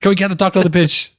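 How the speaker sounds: hammed-up call for a doctor; mock alarm. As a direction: pretend emergency call. Mock referee cry.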